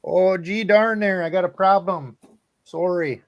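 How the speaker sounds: high, slow folksy fisherman voice; lightly hammed-up backwoods fisherman; hokey northern impression. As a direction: play a goofy Minnesota angler in trouble. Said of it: "my best impression I can give you".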